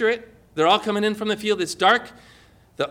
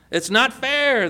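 a half-hearted protest yell; mild mock shout; 5 semitones higher, slower than usual. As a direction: complain it's not fair as a lightly voiced worker. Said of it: "they shouted".

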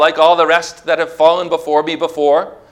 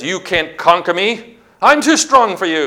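higher-pitched acted boast; taunting enemy voice; 4 semitones higher than usual. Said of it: "The enemy says".

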